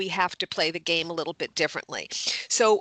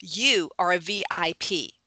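whispered. Acted. Telling people they are VIPs.

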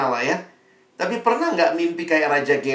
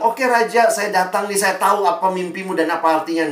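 boastful Daniel; 5 semitones higher, 4 dB louder than usual. Pretend.

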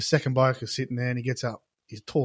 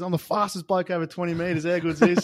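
excited boasting; 6 semitones higher than usual. Retold or imitated. First bloke bragging to the boys about his record, excited. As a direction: play a bloke carrying on about his win. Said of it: "He's screaming, carrying on".

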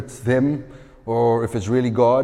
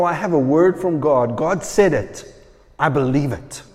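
confident conviction. Shown as a demonstration. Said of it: "You hear the difference?".

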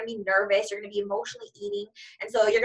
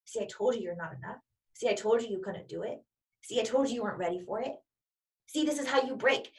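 a quiet, taunting inner critic, just under the breath; the doubting voice in your head, softly mocking; 5 dB quieter than usual. Self-doubt whispering to you after you skip practice, quiet and taunting. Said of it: "this is the voice that then says".

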